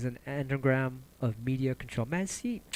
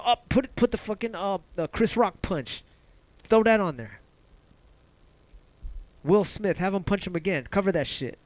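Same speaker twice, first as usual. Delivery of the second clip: higher, louder mock order to cut away; mock news boss; 5 semitones higher, 3 dB louder than usual. Media boss ordering a distraction clip, mocking panicky bark. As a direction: ham up a panicky newsroom boss.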